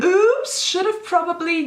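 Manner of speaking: mock oops. Mock guilt at her plot.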